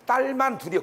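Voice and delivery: mildly disappointed parent; disappointed sigh. Retold or imitated. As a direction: say "딸만 둘이요" with a sigh of regret. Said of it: "서운함이 말 속에 들어있는 거야".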